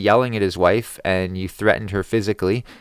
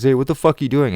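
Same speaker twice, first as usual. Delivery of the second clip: mild mock yell, higher pitched; imitated yell; 5 semitones higher, 4 dB louder, faster than usual. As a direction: imitate someone yelling from a distance, lightly. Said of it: "comes yelling at me".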